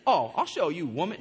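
playfully offended mother; mock indignant mama. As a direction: act out a mama's joking threat. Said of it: "your mama might have slapped you".

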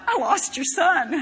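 laughing mock confession. Imagines telling God he lost Jesus.

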